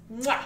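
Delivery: exaggerated smacked kiss noise; chef's kiss. Praising the horror sequence's design, theatrical kiss sound. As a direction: blow an appreciative mock kiss.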